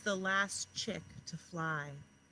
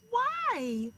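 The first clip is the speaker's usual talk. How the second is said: much higher, louder little-chick voice; chick's whiny why; 13 semitones higher, 9 dB louder than usual. A narrator's reading. Last chick asking her parents why, in a high squeak. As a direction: squeak it like a small scared chick. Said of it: "said the last chick".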